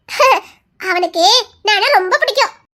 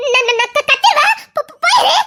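stammering, higher, frightened threat; panicked stammer; 5 semitones higher than usual. Acted. Girl cornered by the man stammers a frightened threat.

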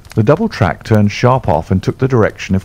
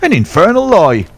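much higher and louder enraged denial; furious shout; 11 semitones higher, 4 dB louder than usual. Acted. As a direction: roar it out in outrage. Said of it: "he shouted".

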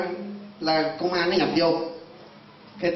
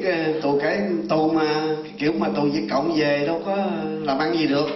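usual speaking voice

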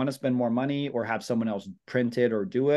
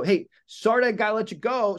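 higher, louder, bright hurry-off; upbeat excuse; 8 semitones higher, 4 dB louder than usual. Shown as a demonstration. Agent cutting the call short for real estate work, upbeat and higher. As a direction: sound busy and in demand. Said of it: "it's gotta scream that".

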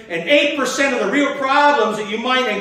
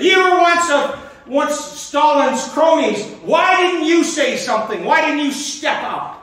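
heckler's challenge; 6 semitones higher than usual. Retold or imitated. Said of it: "And the heckler said".

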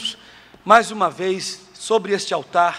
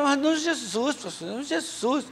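a higher, stubborn churchy denial; high mock denial; 7 semitones higher, 5 dB quieter than usual. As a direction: her voice pitched up, dragging out Jesus. Woman denying problem to pastor.

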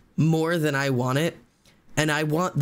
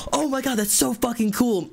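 high-pitched imitation of a thrilled fan; mock starstruck squeal; awestruck excitement; 9 semitones higher than usual. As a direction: gush like an amazed concertgoer. Retold thrilled reaction to the pick.

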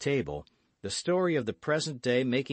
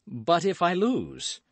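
slow, high, louder objection; anxious insistence, falling at the end; insistent worry; 9 semitones higher, 5 dB louder than usual. A narrator's reading. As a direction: press the doubt again, drawing it out. D'Artagnan insists on his doubt.

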